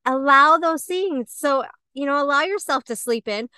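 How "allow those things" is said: higher, slower, soothing friend voice; a friend easing her guilt, higher and slow; gentle reassurance. Retold or imitated. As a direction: coax her kindly, taking your time. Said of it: "But she was like".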